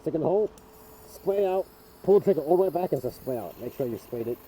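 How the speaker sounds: muffled behind a respirator. Real, not acted. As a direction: speak through a respirator mask. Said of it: "I have respirator voice".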